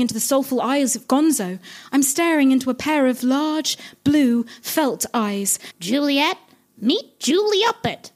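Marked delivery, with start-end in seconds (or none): 5.8-8.1 grand reveal. Acted. Gonzo unveils the Muppet.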